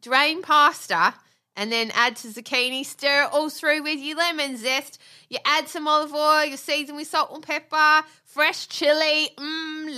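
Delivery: a hint of a cheerful TV chef, cooking patter; lightly voiced celebrity chef talk; Jamie Oliver impression. Hosting the cooking bit, a mild TV chef voice. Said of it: "my terrible Jamie Oliver impression".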